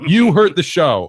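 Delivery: loud, slow, high mock accusation; slow mock outrage. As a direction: drag it out in hammed-up outrage. Repeated mock scolding.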